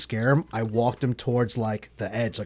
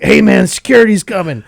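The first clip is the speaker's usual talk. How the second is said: urgent warning shout; 8 semitones higher, 12 dB louder than usual. Retold or imitated. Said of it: "some guy's like".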